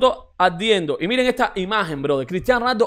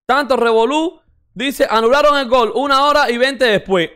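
ordinary talk

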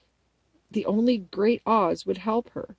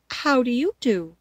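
higher, politely returned greeting; 4 semitones higher, 6 dB louder than usual. A narrator's reading. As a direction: return the courtesy as a polite girl. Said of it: "replied Dorothy politely".

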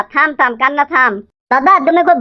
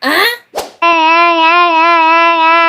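put-on child wailing; much slower than usual. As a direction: wail like a stubborn kid in a tantrum. Child wails refusing school.

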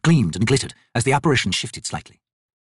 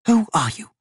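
higher, wary wizard voice; wizard's question; 10 semitones higher than usual. Acted. Quick Ben questioning the hooded figure, wary. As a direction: ask it sharply, off guard. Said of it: "the wizard asked".

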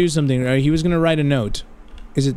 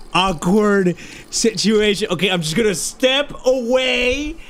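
awkward apology; slower than usual. Acted. Awkward apology to man on toilet.

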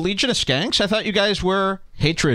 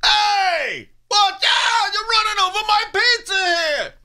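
put-on New York accent, shouted much higher; hollering New Yorker. Mocking hollering New Yorkers in a New York accent. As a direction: yell it like a New Yorker guarding his pizza. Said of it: "a bunch of hollering assholes".

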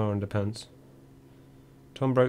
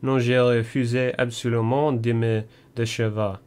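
English speaker's halting French, a little louder; hazy schoolboy French; 4 dB louder than usual. Retold or imitated. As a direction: Tom stubbornly refusing in shaky French. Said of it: "summoned his hazy French".

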